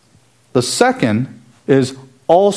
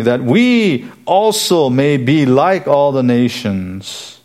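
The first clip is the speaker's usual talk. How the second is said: WE drawn out, slow reading of the verse; emphatic WE; much slower than usual. Retold or imitated. Preacher quotes the people wanting a king, emphatic on "we". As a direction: lean long and hard on "we". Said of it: "is emphatic".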